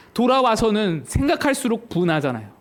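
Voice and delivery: normal talking voice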